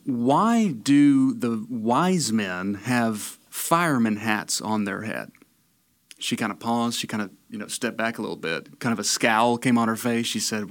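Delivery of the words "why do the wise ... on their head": slow, drawn-out question; puzzled question. Acted. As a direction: stretch it out like a baffled visitor. Joke character asks slow puzzled question.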